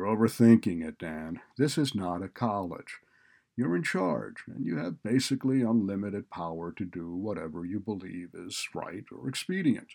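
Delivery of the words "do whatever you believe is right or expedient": ordinary delivery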